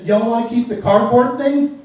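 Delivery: mild mock southern "Y'all wanna keep the cardboard thing?"; lightly put-on Appalachian twang on "Y'all"; southern drawl. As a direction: cashier repeats in a light southern accent. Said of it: "She said".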